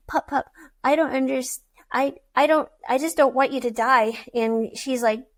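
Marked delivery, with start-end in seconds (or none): 0.1-4.2 retold crying. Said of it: "and she was crying".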